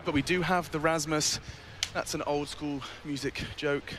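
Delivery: slow, winded after a run; talking while catching breath. Real, not acted. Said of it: "You're a lot out of breath".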